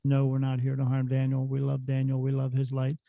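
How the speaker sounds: even, steady machine voice; calm computer voice. Retold or imitated. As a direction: speak like a calm talking computer. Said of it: "in that computer voice".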